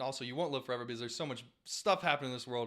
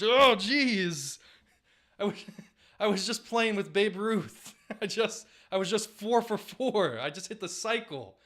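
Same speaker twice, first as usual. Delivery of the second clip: put-on high, laughing voice of a just-woken old ballplayer; hammed-up old man pulled from heaven; groggy Ted Williams; 7 semitones higher, 6 dB louder, slower than usual. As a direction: whine through giggles about the dream. Thawed Ted Williams speaks.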